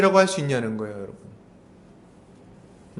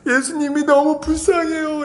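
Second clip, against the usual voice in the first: higher, slow, tearful mock plea; imitating a crying girl; 8 semitones higher than usual. Girl answers the teacher while weeping, mock crying. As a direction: whimper it like a sobbing teen. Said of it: "막 울면서 얘기를 하는 거예요".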